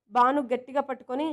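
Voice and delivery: usual speaking voice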